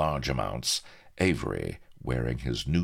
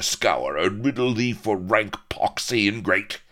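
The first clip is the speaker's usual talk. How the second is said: blustering pirate outrage, often louder; indignant howl; 4 semitones higher, 4 dB louder than usual. Acted. Outraged pirate berates the man he carried, indignant howl. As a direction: rail at the ingrate, swelling to a loud finish. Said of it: "howled Firebeard".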